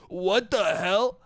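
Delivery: drawn-out, incredulous mock challenge; slow, hammed-up objection; mock pushback. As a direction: stretch it out in feigned disbelief. Imagined pushback on the boaster.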